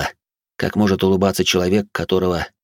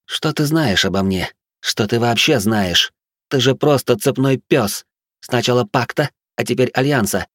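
scornful mad noblewoman; 5 semitones higher than usual. Acted. Batori's scornful tirade.

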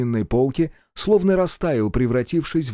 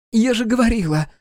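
high-pitched indignant exclamation; sudden outcry; 11 semitones higher, 3 dB louder than usual. A narrator's reading. Daughter breaks in on her father, crying out. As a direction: burst out in a high voice. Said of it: "вдруг выкрикнула Василиса".

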